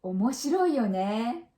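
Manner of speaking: agreeing remark. Shown as a demonstration. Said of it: "Then we say".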